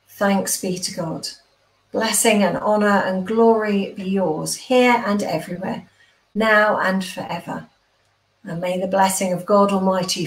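measured prayer of blessing. Acted. Vicar blesses the online congregation, prayerful. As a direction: pray it steadily over the congregation.

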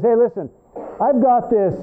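lightly put-on hillbilly accent; mild mock hillbilly accent; silly hillbilly accent. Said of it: "had a little silly accent".

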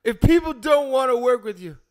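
theatrical monologue voice. Pretend. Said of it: "the most theatrical voice you can".

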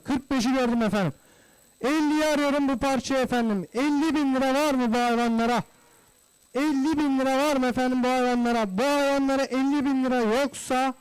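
rapid repetitive bid calling; auctioneer. Real, not acted. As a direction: call bids in steady rhythm. Livestock auction bidding calls.

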